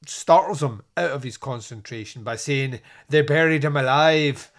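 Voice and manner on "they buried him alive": put-on louder, ominous take on a rural verger's accent. Verger startling the detective, in a louder spooky verger accent. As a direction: lean into a creepy verger's accent, announcing doom. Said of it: "I have to do the accents".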